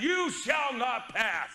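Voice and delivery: slow, drawn-out commanding decree; movie wizard line. Retold or imitated. Preacher quoting the Lord of the Rings to the congregation, slow commanding decree. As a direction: plant your feet and forbid the enemy passage. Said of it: "That enemy tries to pass it".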